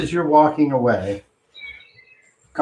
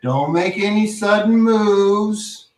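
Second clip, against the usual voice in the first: stern sheriff; 5 semitones higher, slower than usual. Acted. GM voices sheriff warning.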